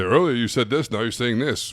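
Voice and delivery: accusing the client of contradicting themselves; blunt call-out. Shown as a demonstration. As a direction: confront them head-on with the contradiction. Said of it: "put their face in and say".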